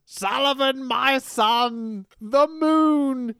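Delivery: slow, grand cult-leader intoning; lightly voiced wrestling villain, slowed and portentous; mock Taskmaster promo. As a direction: ham up a mystical villain promo. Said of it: "And he goes".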